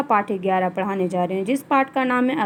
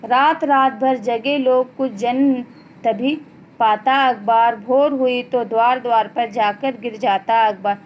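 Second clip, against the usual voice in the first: teacher's deliberate poem reading; poem recitation. Acted. Reads the poem aloud.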